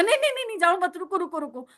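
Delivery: mock-tearful begging, starting high; tearful pleading. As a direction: plead with the guru not to leave, half-acted. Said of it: "तो बड़ा रोना आएगा".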